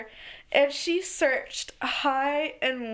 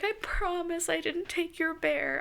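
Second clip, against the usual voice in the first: pleading mom; 6 semitones higher than usual. Retold or imitated. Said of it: "my mom's like".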